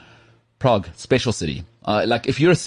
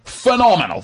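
high excited praise; 11 semitones higher than usual. Real, not acted. Praising the Australian accent.

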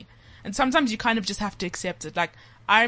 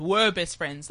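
WERE leaned on to mark the past; stress on WERE; slower than usual. Real, not acted. Friend teasing about a lost friendship, stressing WERE. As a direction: put the weight on "Were". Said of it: "The operative word being were".

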